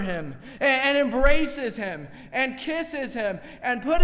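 rising, fervent sermon delivery; preaching. Acted. Pastor preaching to his congregation, fervent sermon voice. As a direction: preach it out with building fervor. Preaching about the prodigal son.

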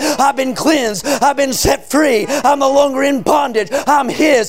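driving, sustained revival sermon cadence; full-force preaching. Real, not acted. Preacher proclaiming salvation to the congregation, full-force preaching. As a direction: preach it hard, stretching the key words.

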